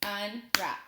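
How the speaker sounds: "Unwrap" as two detached beats, Un, then wrap; split into syllables. Shown as a demonstration. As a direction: break "Unwrap" apart after Un. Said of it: "I'll clap it out".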